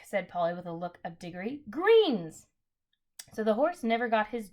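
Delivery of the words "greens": shout. A narrator's reading. Polly calls to Diggory.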